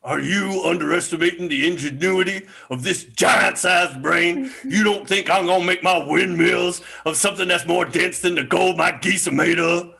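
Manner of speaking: hammed-up giant indignation, a shout at the start; a giant taking offence, half in jest; mock-angry giant. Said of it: "I got angry and my voice changed".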